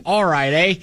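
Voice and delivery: put-on Minnesota accent. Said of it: "had a Minnesota accent".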